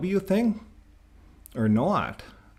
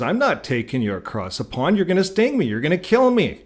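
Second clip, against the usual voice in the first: lightly voiced worried frog, rising higher; a hint of a scared frog refusing; frog pleading; 6 semitones higher than usual. Frog refusing the scorpion a ride, a touch of fear.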